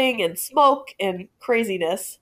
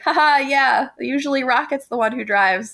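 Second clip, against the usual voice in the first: nervous laughing ramble; 4 semitones higher than usual. Retold or imitated. Rambling in character to cop.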